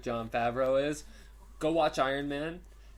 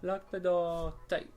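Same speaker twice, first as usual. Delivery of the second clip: slow, higher stern command; robotic order; 6 semitones higher, slower than usual. Retold or imitated. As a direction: drag out the order. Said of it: "He says it just like that".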